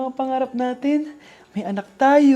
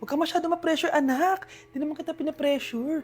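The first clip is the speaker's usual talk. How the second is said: tender reassurance; 7 dB quieter than usual. Acted. Mother reassures stressed child.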